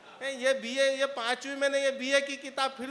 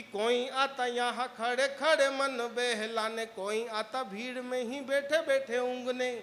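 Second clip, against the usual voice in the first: slow, measured poetic recital; poem recitation; slower than usual. Acted. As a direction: savor each line like a poet on stage. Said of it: "इन चार पंक्तियों को".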